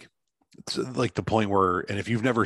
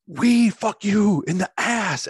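high, slow hammed-up thug voice; mock Russian mobster; 12 semitones higher, 6 dB louder, slower than usual. Imitating the mobster for a signing interpreter, slow and high. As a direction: drag it out like a comic Russian gangster. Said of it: "to emphasize how he's speaking".

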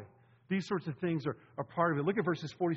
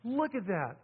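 awed exclamation; 7 semitones higher, slower than usual. Retold or imitated. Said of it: "we said".

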